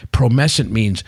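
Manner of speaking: slow, deliberate retold explanation; mildly impassioned explainer, drawing out the terms. Founder explaining his product's name, mildly impassioned. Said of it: "goes into this impassioned explanation".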